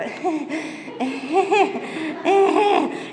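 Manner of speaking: a kid's put-on laugh; mock forced giggle. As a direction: fake a little giggle on command. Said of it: "laugh like you mean it".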